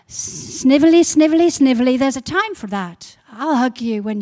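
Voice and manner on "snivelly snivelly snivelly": mock snivelling. Shown as a demonstration. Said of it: "mocking weak touchy prayer".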